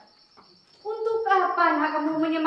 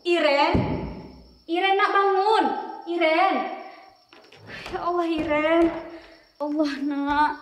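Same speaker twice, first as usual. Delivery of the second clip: alarmed calling. Acted. Mother finds child unresponsive.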